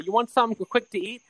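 high, put-on old mother; mom impression. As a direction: act the proud Italian mom. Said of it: "they're like".

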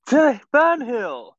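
drawn-out corny intro. Pretend. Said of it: "And I'll be like".

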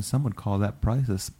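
talking around walnuts; mouth full. Real, not acted. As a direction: speak through a mouthful. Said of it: "I had a couple walnuts in my mouth".

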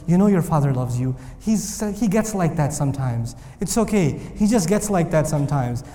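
lightly voiced mother, soft and low; a hint of a consoling mother; mother comforting her crying son, softly; soothing mother. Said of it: "his mother comes up ... and says".

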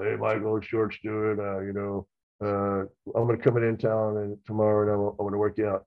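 lightly put-on big deep voice; a hint of a deep-voiced coach; George Stewart's deep voice. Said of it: "big deep voice".

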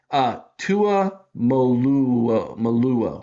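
stumbling over Tuimoloau, slow and unsure; groping for the syllables of the name; fumbled name. Real, not acted. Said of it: "I'm gonna get it right this year".

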